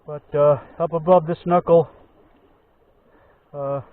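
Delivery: muffled behind a face covering; through a balaclava. Real, not acted. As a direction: speak through cloth over the mouth. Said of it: "Sorry if I sound muffled, I got this balaclava covers my face".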